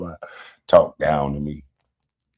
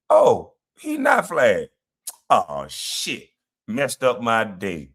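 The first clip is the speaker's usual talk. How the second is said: slow, mock-dejected imitation; mock letdown; slower than usual. Streamer mimicking TJ learning he's not flagged, mock letdown. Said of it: "He went from a high to a straight low".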